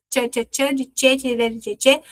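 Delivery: "Tchê" repeated in quick, crisp bursts; CH sound drill. Shown as a demonstration. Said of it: "desse C H".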